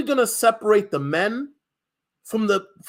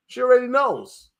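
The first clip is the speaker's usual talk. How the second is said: higher, louder knowing repeat; raised, knowing echo; 4 semitones higher, 4 dB louder than usual. Shown as a demonstration. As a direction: say it again like it's obvious.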